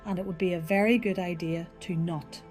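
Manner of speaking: Irish brogue leaning hard on "not"; high Irish voice, "not" weighted and held at the end; Irish server warning a tourist, pressing on "not"; emphasis on not. Acted. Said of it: "There was a specific emphasis on the word "not".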